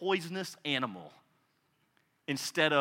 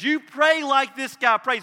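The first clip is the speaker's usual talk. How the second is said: emphatic Jesus; 8 semitones higher, 8 dB louder than usual. Retold or imitated.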